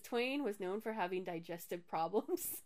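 amused read-out, laughter breaking in; reading through laughter. Real, not acted. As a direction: giggle while reading it out. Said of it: "not gonna get through this without laughing".

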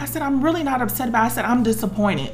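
getting tearful. Real, not acted. Woman admitting to God she is disappointed, tearful. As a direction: push through the welling tears. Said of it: "I'm getting tearful about it".

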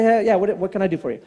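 retold curt service line; all business. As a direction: toss off a businesslike offer of help. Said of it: "he's all business".

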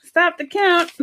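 Sesame Street Count voice, lightly done; a hint of the vampire Count counting; Transylvanian accent. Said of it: "the count voice from fucking, um, Sesame Street".

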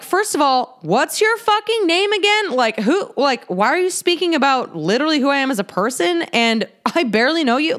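rattled and indignant, demanding answers; retold angry outburst. To the coworker who lied about her, angry disbelief.

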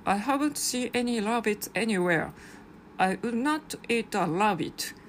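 slow, eerie storybook reading of the bear's lie; creepy bear's denial. Acted. Reading the picture book's chilling last line in a slow, eerie voice. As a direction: read it slowly like a bear hiding a dark secret. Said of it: "ちょっと怖すぎてもうガクブルしちゃいました".

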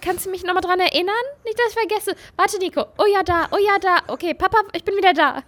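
high, fast phone chatter; daughter on phone. Retold or imitated. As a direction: gossip to dad while distracted. Continues the imitated phone call.

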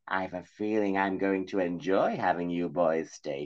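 soft, slow menacing crone; sinister crone. Acted. Crone quietly threatening the boys. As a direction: savour the threat.

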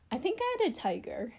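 "I think I had a tiger" floated up as a half-question; unsure musing. Real, not acted. Wondering aloud, then confirming.

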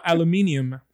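"aluminium" as al-yu-MIN-ee-um; British pronunciation. Shown as a demonstration. Showing British English, "aluminium" with stress on MIN. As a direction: say "aluminium" with the extra i before -um. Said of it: "or in British English".

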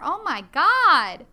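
loud, drawn-out oh my god; sudden horrified realization; a slow loud gasp of dismay; shocked outcry. Real, not acted. Realizes she forgot the accent.

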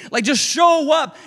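slow, pleading call with a mild shout; crying out to God. Retold or imitated. Preacher voicing a struggling believer's prayer, slow pleading cry. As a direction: beg God to just show up. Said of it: "you keep crying out".

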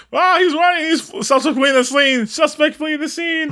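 high mock police call; excited cop. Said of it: "And he's like".

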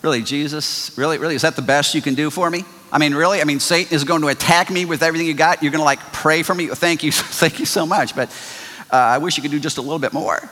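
fast, sarcastic grumbling at Jesus; lightly voiced sarcastic complaint; mock disappointed complaint. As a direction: whine like an ungrateful believer. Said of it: "you might initially say".

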